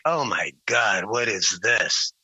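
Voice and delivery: a put-upon who-is-this-guy reaction; bewildered. Retold or imitated. A singer's bewildered reaction.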